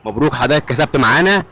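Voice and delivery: loud, excited winner announcement; booming prize announcer. Acted. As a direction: call out the win like a game-show host. Announcing street quiz winner.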